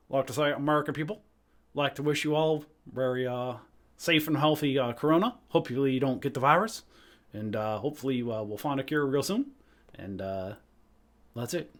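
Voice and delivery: understated presidential address in Obama's voice. Acted. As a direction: do a mild Obama, halting between phrases with uhs. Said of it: "those are my impressions for today".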